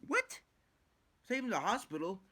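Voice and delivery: high squeaky disbelief at poison control; mock incredulous squeal. Retelling his reaction to poison control, squealing high in disbelief. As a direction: shriek it out, can't believe it. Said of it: "I'm like".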